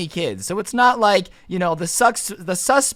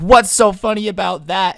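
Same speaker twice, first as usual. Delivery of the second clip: louder, mildly indignant retort; indignant challenge; 5 dB louder than usual. Retold or imitated. Neighbor to the laughing kid, mock indignant. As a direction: imitate an affronted neighbor demanding an answer.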